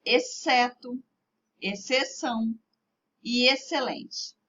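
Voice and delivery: "Exceto, exceção e excelente" with X silent before C. Shown as a demonstration. Teacher shows pupils X marking position only, "Exceto, exceção e excelente" with X silent. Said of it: "Olha a pronúncia da professora".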